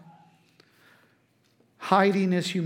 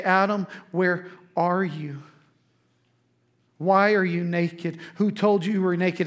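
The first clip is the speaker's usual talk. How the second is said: condemning. Acted. God confronting Adam as condemnation, accusing. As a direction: question them firmly, as if passing judgment. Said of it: "as condemnation".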